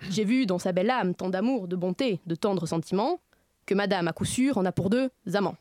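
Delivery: lightly declaimed stage verse; hammy stage actor. Acted. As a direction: recite it like a grand tragedian, understated. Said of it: "que je vais déclamer pour vous".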